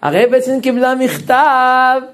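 high, loud, pleading calls of rebbe; pleading to the rabbi. Retold or imitated. אבא מתחנן לפני הרב שך. (תחינה נרגשת, גבוהה ורמה)

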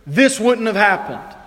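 high, loud, slow cry of hurt; slow pained outcry at God; anguished plea. Pretend. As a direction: plead with God through pain. Pained cry of grieving believers.

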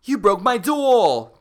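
loud, high and slow; hammed-up outburst; reading the scream dramatically; mock scream. Reading story ending.

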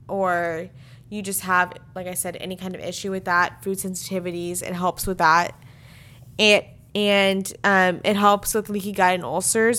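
monotone reading voice; flat stress. Real, not acted. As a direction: read the list flat, no ups and downs. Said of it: "I'm sorry if I sound like I'm being monotone".

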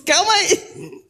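slow, laughing through the words. Retold or imitated. Preacher laughs at pastor Rubens setting Monday.

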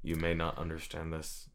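lightly voiced flat monotone; a hint of a dull monotone delivery; flat Architect voice. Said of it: "than just kind of a flat".

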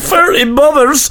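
high, drawn-out silly delivery; comic high-pitched crowing; hammed-up slang. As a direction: stretch it high for a laugh. Hamming up his own slang.

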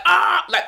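acted overwhelmed yelp; emotional outburst cry. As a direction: let out a mock frazzled cry. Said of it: "I'm emotional, like, out".

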